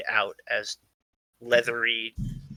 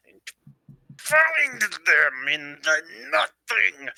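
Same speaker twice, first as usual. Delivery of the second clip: eerie drawn-out wail; 6 semitones higher, much slower than usual. Acted. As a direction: stretch the words out eerily, pitch sliding down and up. Same character's eerie turn.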